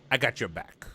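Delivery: whispered scene title. Pretend. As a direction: hush it like a secret. Names a movie scene title.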